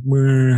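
mock half-hearted crowd groan; unenthused crowd murmur. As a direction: answer as a reluctant audience. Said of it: "they were kinda like".

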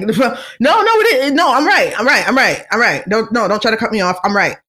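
imitating someone who won't be interrupted; insistent Whoopi. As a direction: play a stubborn woman refusing to back down. Acting out Whoopi doubling down.

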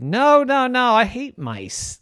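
high, loud insistent cat voice; cat's squeaky protest. Acted. Cheddar cat tells the mouse she hates mice, high and squeaky.

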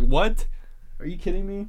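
loud, rising mock-shocked "what"; incredulous friend. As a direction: act out a friend's disbelief, pitch climbing. Retells the friend's shocked reaction.

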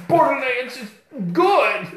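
high, loud laughing mimicry; mocking laugh. Real, not acted. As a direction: laugh while parroting him. Mocking his praise, laughing.

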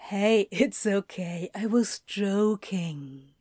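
calm him down gently; gentle. Acted. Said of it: "he said gently".

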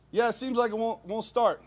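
high, nervous friendliness; retold anxious small talk, high; fake-casual reply. Nervous reply through window.

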